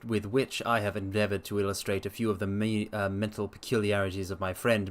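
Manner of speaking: measured storyteller's reading voice; story narration. Acted. Streamer reading Holmes aloud to his chat, dramatic narration.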